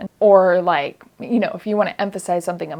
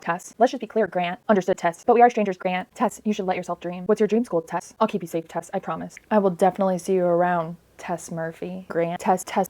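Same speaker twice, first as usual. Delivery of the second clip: name montage. Shown as a demonstration. Reviewer mocks constant name use, names trailing off. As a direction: rattle off the quotes, trailing each name. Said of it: "I'm going to demonstrate".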